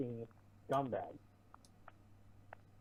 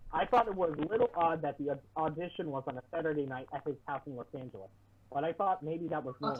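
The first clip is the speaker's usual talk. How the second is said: muffled. Real, not acted. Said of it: "it sounds like you're muffled and it's popping really bad".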